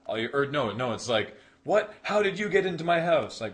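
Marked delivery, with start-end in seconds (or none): 1.6-3.4 high, loud mock Californian accent; soap-opera shock in a spoofed California accent; Californian sketch accent. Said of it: "they just talk with that bizarre accent".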